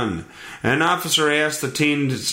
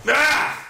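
sneeze; 13 semitones higher than usual. Real, not acted. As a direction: sneeze hard. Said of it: "Oh, I have to sneeze".

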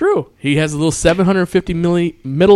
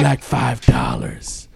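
slow, lower mock druggy voice; imitating wasted Mike; 4 semitones lower, 3 dB quieter, slower than usual. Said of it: "you can tell Mike is on fu-, is fucked up".

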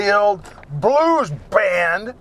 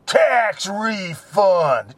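flat disdain; much slower than usual. Retold or imitated. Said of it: "And he goes".

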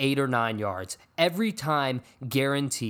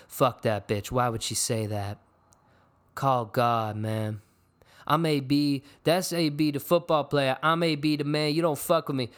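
impression of AB. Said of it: "That's not a good impression".

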